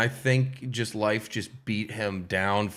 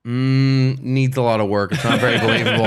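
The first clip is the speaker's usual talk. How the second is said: louder, deliberate mock appraisal; mock critical verdict; 7 dB louder than usual. Bar girl judging his American accent, mock critical. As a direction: play a doubtful critic giving feedback.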